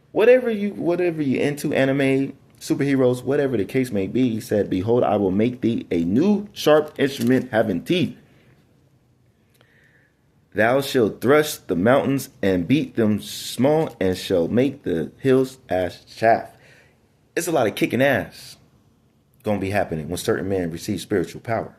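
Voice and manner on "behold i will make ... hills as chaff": measured, solemn bible reading; scripture reading. Acted. Preacher reading to his congregation, solemn and measured. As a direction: read the verse out like a preacher.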